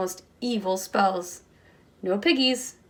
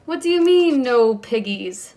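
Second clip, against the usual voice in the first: screech; 2 semitones higher, 6 dB louder than usual. Acted. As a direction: shriek it at the duck in outrage. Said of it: "Gritch screeched to his bill".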